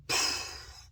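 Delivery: breathy burst imitating rain; voiceless puff for a cloudburst; sudden downpour noise. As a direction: blow out a quick whoosh of rain.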